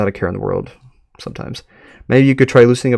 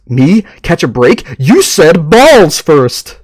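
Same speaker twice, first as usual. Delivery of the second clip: growling; 5 semitones higher, 7 dB louder, much slower than usual. Acted. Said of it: "Chester growls".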